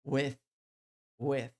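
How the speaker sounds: "with" said with the tongue between the teeth; th sound. Shown as a demonstration. Teacher demonstrating "with" with tongue between teeth. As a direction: push air over the tongue for the th in "with". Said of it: "Tem que colocar a língua entre os dentes".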